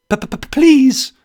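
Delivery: stuttering, high-pitched terrified plea; high, loud stammered begging; voice cracking. A narrator's reading. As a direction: crack like a schoolboy, loud and pleading. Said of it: "my voice cracking like a schoolboy's".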